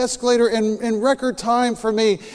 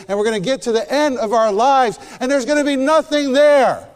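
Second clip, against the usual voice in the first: rising preach; 4 semitones higher, 4 dB louder than usual. Real, not acted. Preaching climax.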